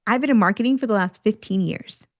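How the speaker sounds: confident and pleased; proud statement of experience to an interviewer. Shown as a demonstration. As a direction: say it as if you love this work. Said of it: "same statement with different tone".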